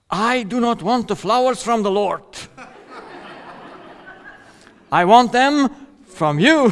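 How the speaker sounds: quoting her through laughter; laughing wife. Retold or imitated. Wife refusing flowers from the Lord, laughing. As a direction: chuckle while voicing wife.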